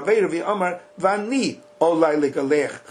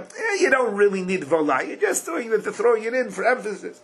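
dismissive; 5 semitones higher than usual. Acted. Voices an opponent shrugging off a word.

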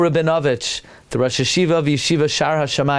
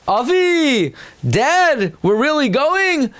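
high, disbelieving question; a boy afraid of the trip; high, worried child's voice; anxious son; 11 semitones higher, slower than usual. Acted. Yitzchak asks his father.

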